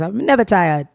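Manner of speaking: playful mock Jamaican accent. Daughter joking with her mother in a mock Jamaican accent. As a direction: put on a loose Caribbean lilt, Jamaican style. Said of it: "We're not even Jamaican".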